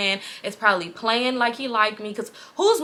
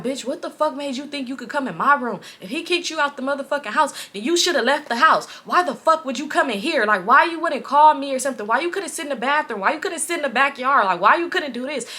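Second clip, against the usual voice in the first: higher-pitched indignant rant; imitated scolding; 4 semitones higher than usual. Man scolding girl for using his room, imitated indignation. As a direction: pile up the indignant questions, acting his anger.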